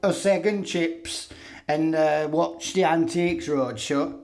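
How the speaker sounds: a lightly voiced plodding bobby wanting his tea; mock police officer.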